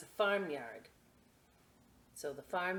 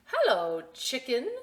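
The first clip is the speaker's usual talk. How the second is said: cheerful call; 7 semitones higher, 9 dB louder than usual. Acted. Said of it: "said Duck".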